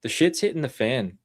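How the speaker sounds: lightly attempted Australian accent; a hint of put-on Australian accent. Shown as a demonstration. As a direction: have a go at an Australian accent, not very convincingly. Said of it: "trying to say it in an Australian accent".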